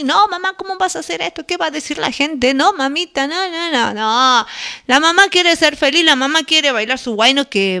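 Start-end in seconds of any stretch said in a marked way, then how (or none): 0.0-4.5 mock scolding of an embarrassed child; 子供の小言の真似. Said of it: "Algunos hijos sí que la atienden".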